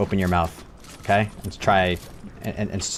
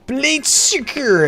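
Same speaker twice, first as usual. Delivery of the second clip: slow trying out; 13 semitones higher, much slower than usual. Real, not acted. Slow trial reading of name.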